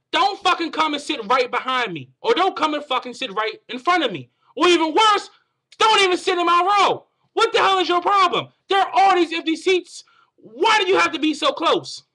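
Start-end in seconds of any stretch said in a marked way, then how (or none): 4.6-12.0 higher and louder, exasperated outburst; a fed-up shout at the person who sits too close; rising rant. Acted. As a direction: blow up at the seat-crowder. Ranting about seat crowding.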